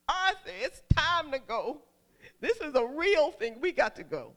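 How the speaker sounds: retold urgency, pressing him to move; urgent announcement. Wife telling husband it's time to go, urgent. Tells husband labor has started.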